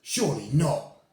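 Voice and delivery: loud, high protest; shouting. Acted. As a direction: shout in disbelief. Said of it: "the others shouted".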